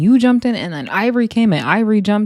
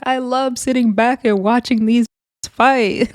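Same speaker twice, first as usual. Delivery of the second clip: imitating gleeful relish, pitched higher; higher-pitched mock delight; happy instigator; 5 semitones higher than usual. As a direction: retell it as someone loving the drama. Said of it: "she was, like, so happy".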